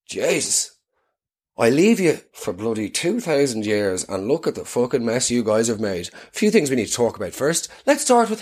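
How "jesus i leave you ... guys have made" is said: exasperated Jesus. Pretend. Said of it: "he'd probably be like".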